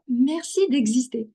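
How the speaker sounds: put-on slow French, lightly American-accented. Recalling her friend's thanks, in a slight American accent. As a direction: imitate your friend's little American accent. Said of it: "avec son petit accent américain".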